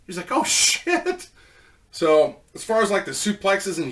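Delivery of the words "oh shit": a high, laughing curse; retold laughing surprise. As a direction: let the laugh break into the word. Partner reacts laughing.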